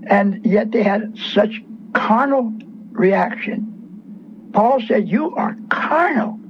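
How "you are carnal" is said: breathy whisper of Paul's rebuke, pitched higher. Retold or imitated. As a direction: whisper it like a stern apostle. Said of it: "He talked like that to the beloved".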